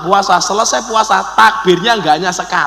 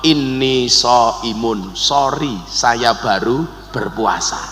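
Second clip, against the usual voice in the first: restrained fasting reply; 8 semitones lower, much slower than usual. Acted. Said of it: "kita disuruh jawab".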